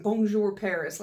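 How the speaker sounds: "Bonjour" French, "Paris" as PAIR-iss; mock the half-French "Bonjour Paris"; French bonjour, English Paris. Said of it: "French accent on bonjour and then just Paris".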